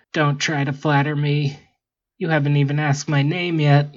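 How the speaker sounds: haughty, dismissive robot voice. Acted. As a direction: look down your nose at them. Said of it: "the bot said haughtily".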